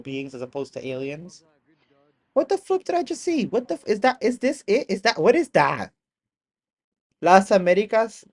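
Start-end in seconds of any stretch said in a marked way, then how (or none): 2.3-5.9 high, startled burst of disbelief; shocked disbelief. Real, not acted. Streamer reacting to strange footage, stunned and loud. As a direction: gasp it out like you just saw a UFO.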